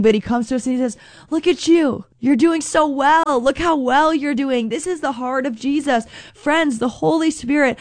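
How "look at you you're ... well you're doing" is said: delighted encouragement. Acted. Jesus voiced encouraging.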